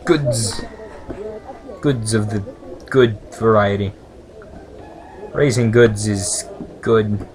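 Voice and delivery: lightly voiced game text read aloud; reading game dialogue. Player reading shopkeeper dialogue, lightly voiced. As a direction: read the lines like a story.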